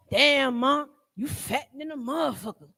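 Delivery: hamming up a crude man's holler; crude catcall. Retold or imitated. A man catcalling a woman, mocked and loud. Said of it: "If all we get from y'all is".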